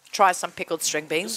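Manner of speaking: crunching while talking; crunching chips. Real, not acted. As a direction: talk through a crunchy bite. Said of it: "You can hear me crunch into the camera".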